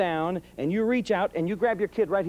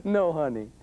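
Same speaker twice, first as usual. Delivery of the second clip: sweet no; 4 semitones lower, slower than usual. Retold or imitated. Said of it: "with a real nice big smile".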